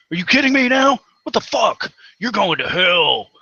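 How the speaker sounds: high, loud, outraged sneering God; mocking God voice. Ranting atheist mocks God scolding a sinner in an outraged, high, loud voice. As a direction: lampoon a petty God scolding a sinner, voice climbing. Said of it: "he's sitting there going".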